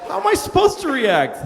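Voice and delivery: usual speaking voice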